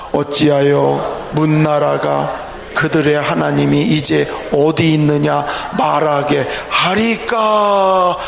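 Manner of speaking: low, measured unison Bible reading; scripture reading aloud. Real, not acted. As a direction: read the verse out evenly, drawing out the ending. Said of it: "이 절을 한번 읽어볼까요".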